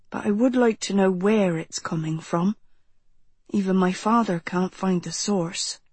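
lightly voiced, thoughtful teenage boy; a hint of a grave young man; serious young man. Narrator voices Jonathan in dialogue.

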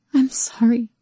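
breathy unvoiced whisper; whispered apology. Rose whispers to Calvin after her nightmare, shaken.

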